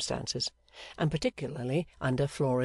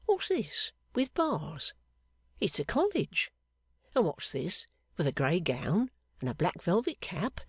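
palm reader revealing; 2 semitones higher than usual. Acted. Fortune-teller reading the seamstress's palm, dramatic reveals. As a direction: unveil each figure with a flourish.

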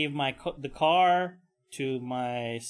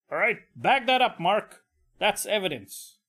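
paramedic boss; 4 semitones higher than usual. Pretend. Boss paramedic giving orders.

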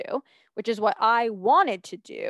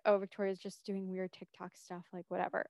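dismissive; 2 semitones lower, 11 dB quieter than usual. Retold or imitated. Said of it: "They were like".

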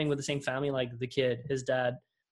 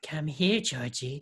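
clown movie line; slower than usual. Acted. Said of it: "what's his line?".

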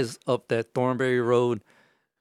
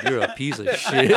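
laughing retold insult; 3 dB louder than usual.

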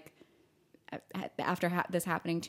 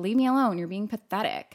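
imitated dismissal, raised then dropping off; condescending jerk. Chris telling Sarah to leave him alone, condescending. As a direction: dismiss her with mild scorn. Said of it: "such a jerk and so condescending".

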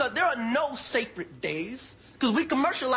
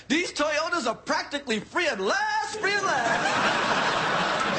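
TV car ad voice; slower than usual. Retold or imitated. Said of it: "watching T V like".

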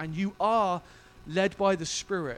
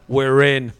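loud, laughing "We're in"; emphatic announcement; 6 semitones lower, 14 dB louder than usual. Retold or imitated. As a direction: declare it with a laugh, all in. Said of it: "he's like".

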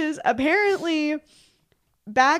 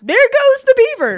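put-on high, loud old newsreel announcer; 1950s narrator; 12 semitones higher, 10 dB louder than usual. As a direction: boom it like a vintage newsreel. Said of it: "got that classic nineteen fifties voice".

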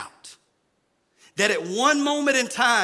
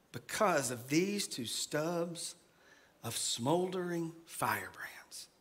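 slow, soft and low, fading to a whisper; soft calming voice; 4 semitones lower, 7 dB quieter, slower than usual. Retold or imitated. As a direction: hush them gently into calm. Reading God's calming words.

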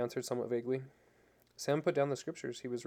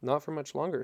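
heated. Acted. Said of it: "she said hotly".

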